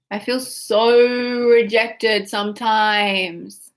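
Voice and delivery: slow, stretched-out whine; whiny. Shown as a demonstration. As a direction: drag out the words like a hurt child. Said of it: "Say it like that".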